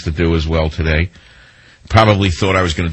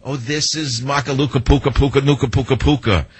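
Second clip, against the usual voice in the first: mock father explaining; 4 semitones higher than usual. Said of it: "Explaining to his daughter".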